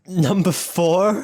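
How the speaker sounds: high, slow drawn-out call; bingo caller. Shown as a demonstration. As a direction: sing out the number like bingo. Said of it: "I'm, like, doing bingo calling".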